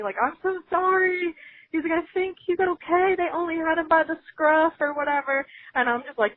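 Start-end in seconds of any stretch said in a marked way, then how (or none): 0.2-5.5 apologetic dog owner. Retold or imitated. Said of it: "trying to, like, yell to me".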